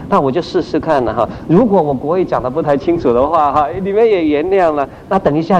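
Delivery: hammed-up modest disclaimer to the group; false humility. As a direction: play the reluctant, falsely modest leader. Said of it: "假谦卑".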